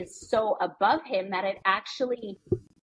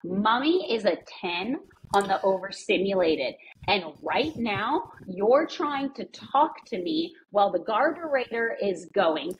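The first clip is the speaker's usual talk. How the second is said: slow, deliberate list of grievances; measured, emphatic parent at the limit; overstimulated mom. Retold or imitated. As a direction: spell it out slowly for a child. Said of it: "I will look at him and I'm like".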